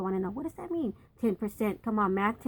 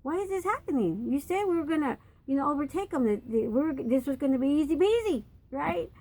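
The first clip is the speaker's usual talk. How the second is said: higher, pleading Joshua crying out to the Lord; Joshua pleading with God; 4 semitones higher than usual. Acted. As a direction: ask why like a desperate leader.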